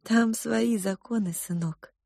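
lightly voiced cook mother. Mother to the girl, softly explaining. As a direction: explain gently to a child.

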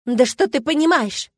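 loud, high, slowed furious question; angry shout. A narrator's reading. Milena explodes at the doubting narrator, shouting. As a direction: shout it high, stretching the words in scorn. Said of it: "закричала она".

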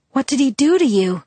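a sharp demand, high and loud. A narrator's reading. To Jacob, demanding what Sam did to him, high loud demand. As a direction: insist on an answer now. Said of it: "I demanded".

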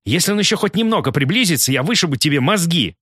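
narrator's restrained fierce bark; barked threat. A narrator's reading. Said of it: "рявкнула Ким".

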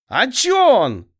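high, slow flustered whine; flustered protest. A narrator's reading. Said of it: "затрепыхалась мелочь". (возмущённо, взволнованно)

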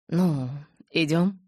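gentle. Acted. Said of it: "Голос Эдварда опять стал ласковым".

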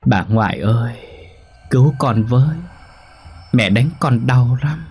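put-on high, tearful little child's voice, begging; a lost dead child crying for help at night; pleading ghost child. Ghost child pleads with her grandmother, high and tearful.

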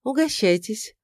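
smiling offer. Acted. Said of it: "улыбнувшись".

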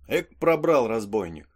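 a loud, hearty outburst; rough cry of delight, said aloud; loud exclamation. Acted. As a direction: call it out loud. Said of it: "Громко".

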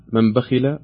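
"من بخل" with the nun of "من" said fully and clearly; clear nun, izhar. Shown as a demonstration. Quiz host repeating the clear-nun option to the caller. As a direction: pronounce the n in "من بخل" distinctly. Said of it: "أم نظهر النون فنقول".

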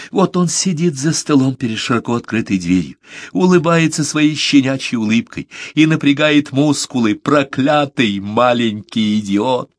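high-pitched, grieving outpour; overwrought, tearful. A narrator's reading. Беккер sees his dead friend, tears coming, overwrought. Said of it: "голос прервался".

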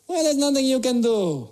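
hint of a helpless shrug; lightly voiced unhelpful local. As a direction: deliver useless advice, lightly in character. Alain's unhelpful retold answer.

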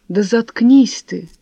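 loud, slow cutting order; snap. Acted. Wife cutting off her lying husband, loud and slow. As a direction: slam the door on his lies.

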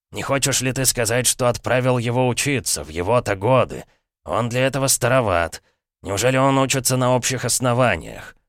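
lightly voiced sly old uncle; a hint of a smug, knowing uncle. Uncle teasing nephew Dick, slyly amused.

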